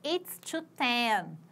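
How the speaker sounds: slow, deliberate model phrase; slow demo. Shown as a demonstration. Teacher repeating the time for students, slow and clear. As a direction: repeat it slowly for the class. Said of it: "escrito assim".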